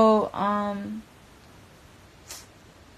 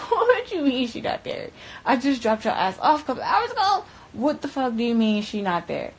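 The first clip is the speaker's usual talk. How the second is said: higher, laughing through the words; laughing disbelief; 6 semitones higher than usual. Retold or imitated. Telling him she just dropped her off, laughing in disbelief. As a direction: laugh it off like it's absurd.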